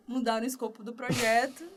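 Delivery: ordinary talk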